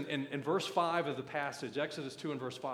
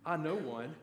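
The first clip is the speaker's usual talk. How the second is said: Miriam; slower than usual. Acted. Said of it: "right there is Miriam to say".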